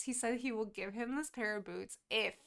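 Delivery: ordinary talk, nothing marked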